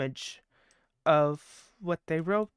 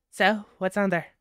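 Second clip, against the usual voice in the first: a louder, lightly voiced Banshee; banshee wail; 3 semitones higher, 6 dB louder than usual. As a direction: put on Banshee's voice for the question. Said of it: "Banshee voice".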